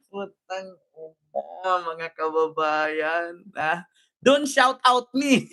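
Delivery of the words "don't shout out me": slow, drawn-out mock protest; mock protester. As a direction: stretch it out, lightly mimicking her. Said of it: "Pareho kami ni ate mag-English". (bahagyang panggagaya, pahaba ang bigkas)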